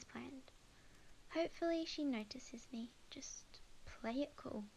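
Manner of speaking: hushed self-pep-talk, trailing very soft; quiet jittery self-encouragement; nervous whisper to herself. Acted. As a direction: whisper it so she won't notice you. Nervously coaching herself on bench.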